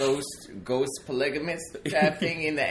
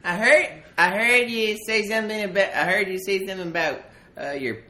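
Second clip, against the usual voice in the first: coal miner character voice; 2 semitones higher, 4 dB louder than usual. Acted.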